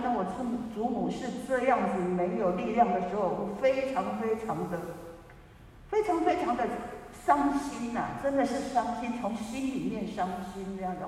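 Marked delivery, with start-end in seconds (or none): 3.2-11.1 deep sorrow. Retold or imitated.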